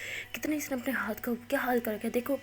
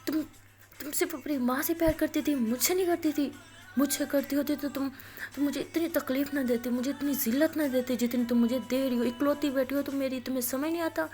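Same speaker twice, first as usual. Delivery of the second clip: retold angry yelling. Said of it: "زور سے چیخ رہے ہوتے ہیں".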